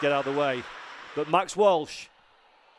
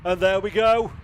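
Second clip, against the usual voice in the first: building call, louder already; rising excitement; 4 semitones higher, 6 dB louder than usual. Real, not acted. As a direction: start the finish call with lift. Race finish call begins.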